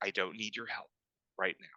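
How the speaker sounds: hushed, very quiet half-whisper. Voicing a man who answers a player's offer of help: half-whispering in character. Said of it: "The man whispers back to you".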